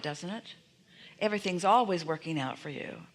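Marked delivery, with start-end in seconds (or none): 1.2-3.1 calm and sure, leaning on always; confident assurance. Shown as a demonstration. Guide offering the better phrase, calm certainty. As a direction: state it as settled fact, no worry. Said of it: "It's slightly different".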